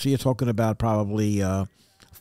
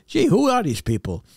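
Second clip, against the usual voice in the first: higher-pitched, bemused self-quote; mock wonder; 6 semitones higher than usual. Passenger looking back at the rows behind him, bemused. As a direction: puzzle aloud over a crowd of strangers. Acts out his reaction to fellow passengers.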